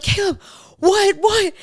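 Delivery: high, loud startled questioning; retold alarm. Wife retelling her reaction to husband's screams, high alarmed cry. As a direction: call out as if jolted awake by screaming.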